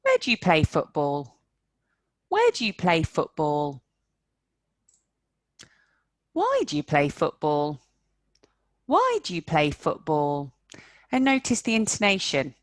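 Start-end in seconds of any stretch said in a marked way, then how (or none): 0.0-3.8 "Where" stressed. Shown as a demonstration. Teacher to class, stress on "Where". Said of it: "That's where the main stress is". 6.3-10.5 "Why" stressed. Shown as a demonstration. Teacher to class, stress on "Why". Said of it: "That's where the main stress is".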